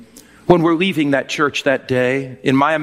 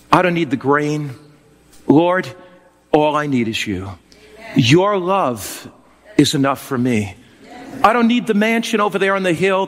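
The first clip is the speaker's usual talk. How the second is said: tender prayer. Acted. Kneeling prayer to Jesus, imagined.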